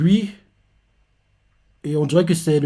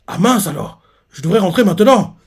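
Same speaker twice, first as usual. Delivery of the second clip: lightly voiced dismay; 4 semitones higher, 4 dB louder than usual. Acts Ochu realising she is late.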